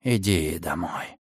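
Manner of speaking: low, slow hush; soft whisper. A narrator's reading. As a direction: whisper it to a baby. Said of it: "шепнул он". (тихий шёпот)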